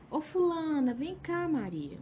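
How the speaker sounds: mock chamado agudo de mãe, alto; mãe chamando a filha. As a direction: imitando a mãe que chama sem autoridade. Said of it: "a mãe fala assim". (mãe chamando a filha de longe, voz aguda)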